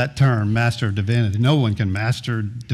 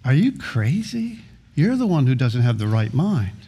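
scoffing disbelief. Retold or imitated. Young surfer scoffing at a preacher's prediction, mocking. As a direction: scoff as if the idea is absurd. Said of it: "I'd go".

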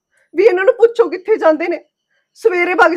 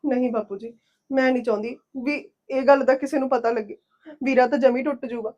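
tearful; 4 semitones lower, 4 dB quieter than usual. Acted. Tearful wife talks to father-in-law.

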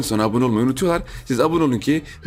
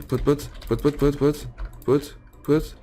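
soft imitated footsteps; 5 dB quieter than usual.

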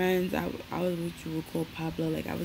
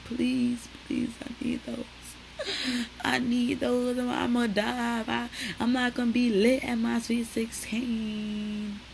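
begging mother; 5 semitones higher, slower than usual. Retold or imitated. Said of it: "I was begging my mother".

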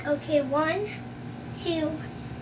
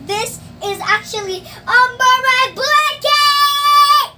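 high, slow, sung announcement; excited sing-song; 7 semitones higher, 5 dB louder, slower than usual. Real, not acted. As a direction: sing the big reveal. Sung reveal.

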